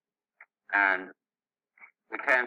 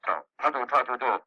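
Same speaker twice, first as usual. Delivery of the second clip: a hint of a higher orc shaman voice; lightly put-on orc growl, a bit higher; Durak's orc voice; 4 semitones higher, 3 dB louder than usual. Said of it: "Durak voice when he talks like this".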